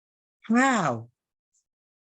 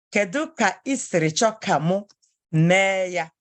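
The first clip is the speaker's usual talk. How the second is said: ordinary talk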